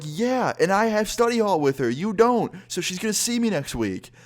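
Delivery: high, loud stressed reply; telling his friend the teacher will see him, in high alarm. Retold or imitated. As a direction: spill it out in a rising panic. Narrator answers in alarm.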